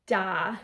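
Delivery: DA held smooth for its full value; smooth connected syllable. Shown as a demonstration. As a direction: say "da" as a long, connected tenuto note. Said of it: "this is a smooth, connected".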